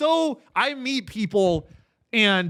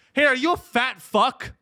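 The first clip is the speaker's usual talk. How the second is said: a hint of a pushy ad announcer, higher; ad pitch voice; 7 semitones higher, 3 dB louder than usual. TV ad cutting into the game, a light pushy announcer voice. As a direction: pitch it like a loud TV ad. Mimicking a TV ad.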